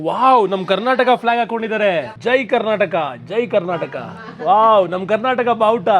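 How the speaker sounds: delighted surprise. Real, not acted. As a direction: cheer proudly at spotting the home flag. Spots Karnataka flag abroad. (ಖುಷಿಯ ಉದ್ಗಾರ)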